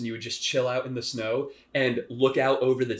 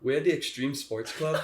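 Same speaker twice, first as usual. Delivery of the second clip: put-on Swedish accent; 3 semitones higher than usual. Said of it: "very soft and melodic Swedish".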